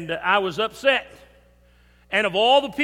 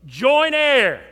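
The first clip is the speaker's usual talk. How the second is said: Joint heir punched louder; emphatic Joint heir; stress on joint heir; 4 semitones higher, 6 dB louder than usual. Acted. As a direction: hit Joint heir hard. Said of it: "You get me?".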